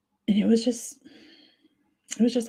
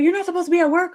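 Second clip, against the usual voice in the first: imitating cousin; 11 semitones higher, much faster than usual. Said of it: "She's like".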